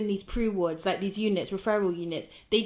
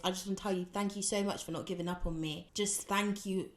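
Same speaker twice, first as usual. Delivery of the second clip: emotional thanks; 8 dB quieter than usual. Real, not acted. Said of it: "I'm gonna get emotional".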